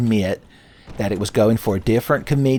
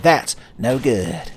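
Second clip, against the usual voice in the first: Sonic catchphrase; much slower than usual. Retold or imitated. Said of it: "That's from the Sonic Says".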